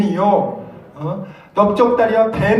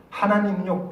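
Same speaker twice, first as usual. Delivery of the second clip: 하나님은요 said softer, falling at the end; softer falling emphasis; 7 dB quieter than usual. Acted. Preacher quietly turns to the congregation, soft falling 하나님은요. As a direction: drop 하나님은요 down gently.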